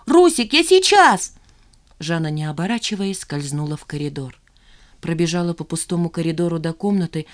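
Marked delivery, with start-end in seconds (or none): 0.1-1.3 high, loud, slow call; carrying, drawn-out call; calling back. A narrator's reading. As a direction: shout back over the shoulder. Calling back while leaving.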